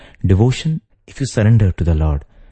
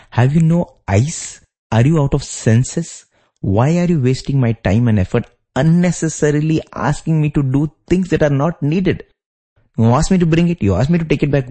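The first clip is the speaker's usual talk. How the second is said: pitched higher, exasperated wife scolding without real volume; mild mock shout; 6 semitones higher than usual. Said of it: "would have shouted and said".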